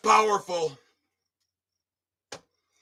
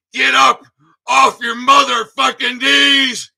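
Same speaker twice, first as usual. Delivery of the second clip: crying shout. Real, not acted. Begging veterans not to give up.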